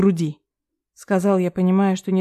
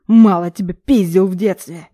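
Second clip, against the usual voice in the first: a louder angry growl at his son; father threatening his grown son, growling louder; growled threat; 5 dB louder than usual. A narrator's reading. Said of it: "рыкнул отец".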